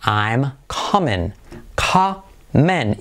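"coming" slowly split as "ka-men". Shown as a demonstration. Teacher breaking it down for learners, "coming" as slow "ka-men". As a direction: stretch "coming" into two parts, ending "men". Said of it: "I como E".

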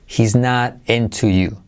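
"He's not into you" slow, t of "not" flapped like a soft Spanish r. Shown as a demonstration. Teacher slowly models "He's not into you" with a flapped t. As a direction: say "not into" as "nar into". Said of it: "la T como R suave".

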